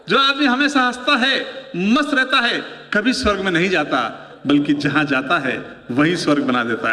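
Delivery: now say it for real, lifting it up; real delivery. Shown as a demonstration. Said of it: "अब तक केवल mic test कर रहा था मैं".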